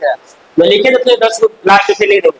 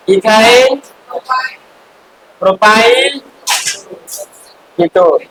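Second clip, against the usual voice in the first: word-by-word dictation with long pauses; much slower than usual. Real, not acted. Teacher dictating a compound name for students to write, word-by-word dictation. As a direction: draw out each word, letting the first two rise.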